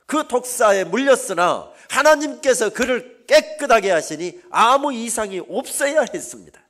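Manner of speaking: very loud, high-pitched pulpit shout; sustained high sermon cry, falling at sentence ends; full-force preaching. Real, not acted. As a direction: hammer out each sentence to the congregation.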